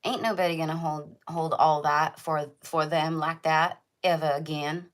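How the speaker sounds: light, playful put-on Southern accent; a hint of a Southern movie accent. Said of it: "How you guys like my Southern accent?".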